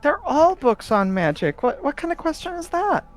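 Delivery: put-on high, incredulous kid scoffing; exasperated child. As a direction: scoff at a silly question. Ghost boy exasperated.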